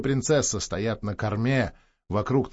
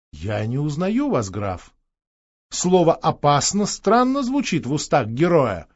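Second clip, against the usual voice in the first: haughty. Acted. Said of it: "надменно начала принцесса".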